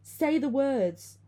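loud, high, drawn-out yell; scream. A narrator's reading. Friend at her ear over the cries, screaming. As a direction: scream it slowly, every word forced out. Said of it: "I heard her scream".

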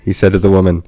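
dramatized reading. Acted. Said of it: "Let me try this again".

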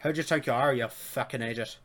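light mock Irish; Irish accent. Host trying the Irish switch, light Irish accent. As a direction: slip into a joking Irish accent. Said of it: "switch to the Irish".

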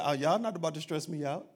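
unbothered, laid-back Jesus, lightly voiced; relaxed Jesus voice. Jesus telling the disciples he won't rush, laid-back. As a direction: shrug it off easy. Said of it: "Jesus said".

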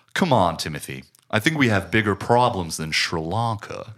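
lightly imitated enunciated American accent; over-enunciate like an exaggerated American; over-the-top American accent. Fan quoting dinner scene to show off the over-the-top American accent. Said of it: "he says to Timothy".

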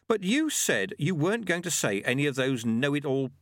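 a hint of indignant pupil; Lobsang, protesting apprentice.

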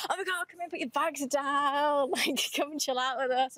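put-on a light Brooklyn accent, pitched high and gushing; welcoming guests at the door in a Brooklyn accent. Gallery owner greeting the visitors, light Brooklyn accent. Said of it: "like, the thickest Brooklyn accent".

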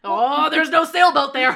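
loud, high, drawn-out mock wail; mock alarm. Co-host plays woman fleeing the car, loud mock alarm. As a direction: wail it slowly, hammed up and half laughing.

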